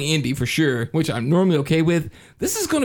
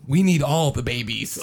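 menacing villain; 3 semitones lower than usual. Retold or imitated. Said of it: "he literally says".

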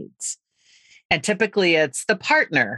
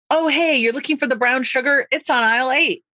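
bright, higher, eager helper voice; eager helpful stranger; 6 semitones higher than usual. Retold or imitated. Helpful stranger eagerly tells a lost shopper, higher and keen. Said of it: "I'll be like, chill".

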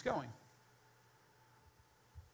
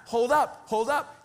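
loud, high call to stop someone; urgent hail after a departing man; 7 semitones higher, 9 dB louder, slower than usual. Retold or imitated. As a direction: shout after him to wait up. Chasing down Elijah, calling out.

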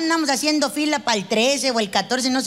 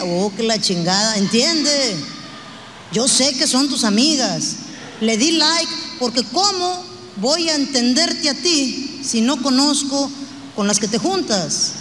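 husband calling his wife insecure; mock husband; 2 semitones lower than usual. Husband brushing off his jealous wife, in a mildly gruff mock voice. Husband justifies liking photos.

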